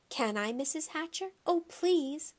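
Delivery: put-on high pleading little girl; begging. A narrator's reading. Girl begging the mother to let her babysit, high pleading. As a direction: plead sweetly, overdo it. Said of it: "begged some more".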